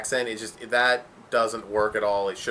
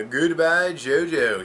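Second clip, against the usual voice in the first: higher, louder villain catchphrase; Dio; 6 semitones higher, 5 dB louder, much slower than usual. Retold or imitated. Fan quotes a removed funny line, imitated villain. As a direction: imitate an anime villain's farewell. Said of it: "I know that Dio doesn't say".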